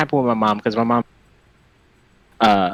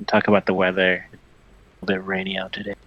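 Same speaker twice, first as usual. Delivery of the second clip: sultry perfume ad; 4 semitones lower, 3 dB quieter, faster than usual. Pretend. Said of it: "my sultry voice".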